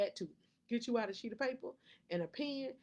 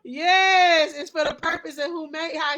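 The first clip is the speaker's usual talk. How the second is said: excited yes; 7 semitones higher, 13 dB louder than usual. Real, not acted. Bursts out after a laugh.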